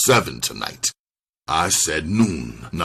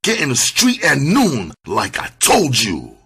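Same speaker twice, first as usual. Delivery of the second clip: raised, hard-edged threatening command; deadly menace; 9 semitones higher, 3 dB louder than usual. Acted. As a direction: lay down the law with menace, pitch climbing. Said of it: "said in a low, deadly voice".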